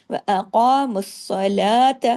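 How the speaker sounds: ق heavy, لا long, ۃ short; slow recitation. Shown as a demonstration. Teacher models correct lengths for students, slow. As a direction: keep the تا of الصلاۃ short. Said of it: "تا زبر تا صرف ایک حرکت".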